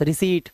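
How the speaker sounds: रिसीट as "ri-seet", without any p; "see" plus t. Shown as a demonstration. Teacher summing up for learners, रिसीट ending "seet", silent p. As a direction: say "see" and just add t in रिसीट. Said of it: "सी बोलो और टा लगा दो बस".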